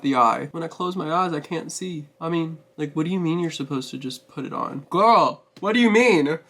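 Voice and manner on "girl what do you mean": cracking up in disbelief; laughing so hard it's almost crying. Real, not acted. Laughing disbelief at false lash.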